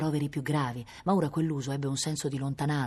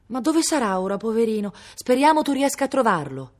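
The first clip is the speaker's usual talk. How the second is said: raised, louder, anxious mothering; maternal worry; 6 semitones higher, 6 dB louder than usual. A narrator's reading. General-like mother listing supplies for her son in the rain, anxiously worried. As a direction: fuss with concern, pitched high and forceful. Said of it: "ributtata in piena preoccupazione materna".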